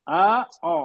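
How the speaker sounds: آ open then او rounded; aa versus o. Shown as a demonstration. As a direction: sound آ then او clearly. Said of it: "آخر کی آواز سنیے".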